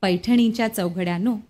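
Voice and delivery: measured, lilting verse reading with pauses between phrases; poem recitation. Acted. Reciting Shanta Shelke's poem about grandmother's Paithani to guests, poem recitation.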